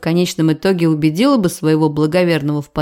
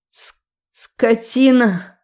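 срыв на крик; 4 semitones higher, much slower than usual. A narrator's reading. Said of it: "Сорвавшись на крик".

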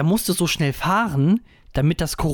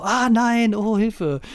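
high, frightened shouting; panicked cry for help; 7 semitones higher, much slower than usual. Retold or imitated. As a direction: yelp like someone running from drones. People fleeing drones, screaming.

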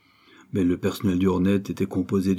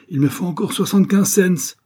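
high, raised-voice demand; shouted demand; 11 semitones higher, 7 dB louder than usual. A narrator's reading. Martin demanding money from monsieur Ford, shouting. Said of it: "cria-t-il à monsieur Ford".

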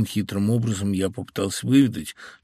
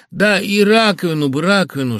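loud, raised-pitch exclamation; crying out; 8 semitones higher, 7 dB louder than usual. A narrator's reading. Host adding one more repair, crying out. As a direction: call out the request urgently. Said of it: "вскричал я".

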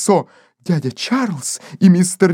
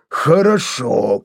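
lower, slow gruff shout; hoarse cry; 7 semitones lower, slower than usual. Acted. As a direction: bark it out hoarsely. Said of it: "крикнул он хрипло". (Кейси хрипло кричит, ниже и медленно)

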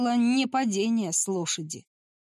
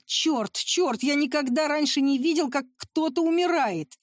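a shaken moan rising higher; shaken groaning; 5 semitones higher than usual. Acted. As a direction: groan it out, shocked by death. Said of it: "застонал". (потрясённо, со стоном, голос лезет вверх)

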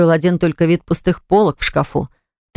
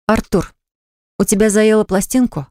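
higher, irritated, lightly acted; displeased tone; 4 semitones higher than usual. Eva snaps at Artur's repeated demands, mildly irritated. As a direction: needle him, annoyed. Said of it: "спросила она недовольным тоном".

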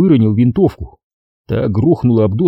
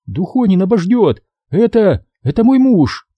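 напористая девушка; 9 semitones higher than usual. A narrator's reading. Надя отвечает солдату.

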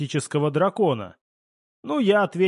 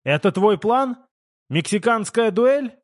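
high-pitched incredulous questions; raised, panicky disbelief; panicked questioning; 7 semitones higher, 4 dB louder than usual. A narrator's reading. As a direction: question the plan in alarm. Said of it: "воскликнул американец панически".

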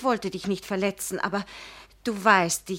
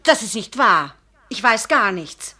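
louder, hurt protest; indignant, raised denial; 5 dB louder than usual. Acted. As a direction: push back against the accusation. Denying accusation indignantly.

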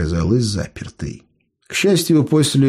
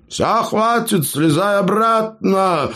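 pleased call; 10 semitones higher, slower than usual. A narrator's reading. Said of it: "довольно окликнул гном".

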